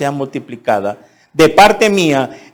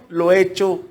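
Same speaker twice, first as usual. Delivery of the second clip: normal talking voice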